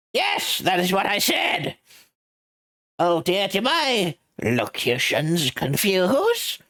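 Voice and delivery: lofty, amused rich man; pompous CEO voice. Acted. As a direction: look down on the lawyer with a chuckle. Red White's pompous lines.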